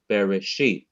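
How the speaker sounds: Bereshit with weight on its final syllable; stress on last syllable. Shown as a demonstration. Teacher repeating the emphasized word, last syllable stressed. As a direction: hold back the emphasis until the end of Bereshit. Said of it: "I have emphasized the last syllable".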